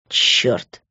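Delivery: whispered curse. A narrator's reading. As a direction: swear under your breath. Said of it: "прошептал Лес". (шёпотом)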